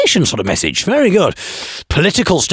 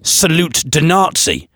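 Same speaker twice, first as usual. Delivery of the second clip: mock French; 4 semitones higher, slower than usual. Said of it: "I thought I would say".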